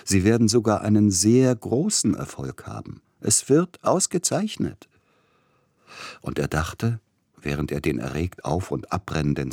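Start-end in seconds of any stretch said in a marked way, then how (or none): 0.0-4.9 higher, slowing emphatic encouragement; the composer encourages the pianist, rising; encouraging. A narrator's reading. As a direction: lift him up with confidence. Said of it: "redete ihm zu wie einem Kranken".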